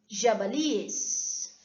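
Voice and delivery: jabalíes drawn out very slowly, syllable by syllable; slow teaching demo of jabalíes; Spanish plural jabalíes. Shown as a demonstration. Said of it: "olha aqui".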